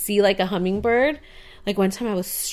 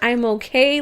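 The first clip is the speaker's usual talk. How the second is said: exasperated grandma; 4 semitones higher, 4 dB louder than usual. Retold or imitated. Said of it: "she was even like".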